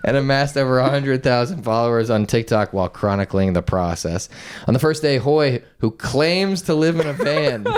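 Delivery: steady news-copy reading; measured reading from a printed article; article read-aloud. Real, not acted. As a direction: read the story out evenly.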